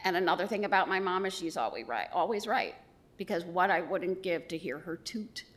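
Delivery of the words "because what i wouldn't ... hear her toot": whispered longing. Real, not acted. Daughter at mother's eulogy, a tender whisper. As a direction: breathe it out as a private ache.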